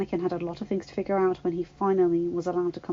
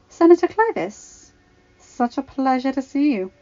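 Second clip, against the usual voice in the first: flirty greeting; 5 semitones higher, 5 dB louder than usual. Acted. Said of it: "Kyla said".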